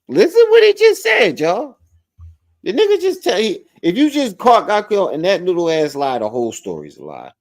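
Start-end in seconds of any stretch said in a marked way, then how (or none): 0.1-5.4 high, laughing call to the chat; laughing outrage. Real, not acted. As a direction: cackle it out to the viewers. Laughing disbelief at caller's lie.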